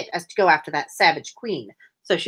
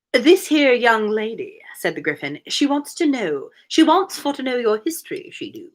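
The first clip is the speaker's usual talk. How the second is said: mock Cockney griffin; 3 semitones higher than usual. Griffin introducing Alice to the turtle, mock Cockney. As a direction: drag out the Cockney griffin's words. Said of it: "so I'm just doing a voice".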